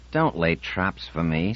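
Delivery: petulant, slow complaint. Acted. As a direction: sulk it out. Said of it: "said Ganar pettishly".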